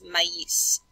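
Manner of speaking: "maïs" in two syllables, "mah-EESS"; French pronunciation. Shown as a demonstration. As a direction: sound both vowels of "maïs" separately, French style. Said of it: "Hear the sound difference there".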